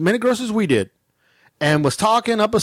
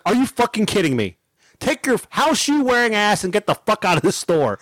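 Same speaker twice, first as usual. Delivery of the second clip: retold indignant telling-off; angry; 2 semitones higher than usual. Shopper ordering rude customer out of store, angry. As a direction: re-enact your exasperated outburst. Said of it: "I was so angry".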